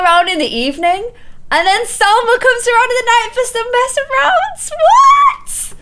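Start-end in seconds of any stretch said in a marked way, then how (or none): 1.5-5.7 a gamer scandalised by her Sim's antics; shocked. Real, not acted. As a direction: shriek the final what. Shocked at Sims' night antics.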